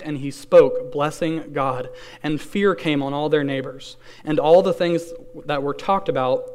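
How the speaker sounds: measured, reverent Bible reading; solemn scripture reading voice. Acted. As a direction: read the passage aloud to the congregation. Re-reads verse sixty-four.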